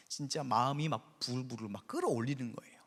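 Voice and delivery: hushed, breathy whisper of seething anger; a secret aside to the congregation. Acted. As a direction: lean in and whisper it. Describes seething rage, whispered.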